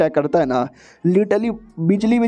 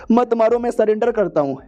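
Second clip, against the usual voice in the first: higher-pitched, mock frightened begging; pleading surrender; 6 semitones higher than usual. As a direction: beg to be spared, lightly acted. Beaten villain begs for his life. (ऊँची आवाज़ में हल्की गिड़गिड़ाहट)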